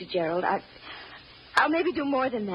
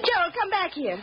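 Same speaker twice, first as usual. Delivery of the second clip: sharp, high call after him; stern summons; 7 semitones higher than usual. Acted. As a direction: order the boy back, voice raised. Mother calling defiant son back.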